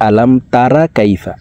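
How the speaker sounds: "তারা" with a plain open "raa"; everyday misreading, "তারা" ending in an open a; common mispronunciation. Shown as a demonstration. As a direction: say "তারা" casually with a thin a, unchanted. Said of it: "আমরা অনেকে এইভাবে পড়ি".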